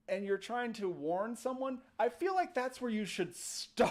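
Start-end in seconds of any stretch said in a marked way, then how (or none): 2.0-3.9 laughing exasperation. Real, not acted. Laughing exasperation at the townsfolk's warning.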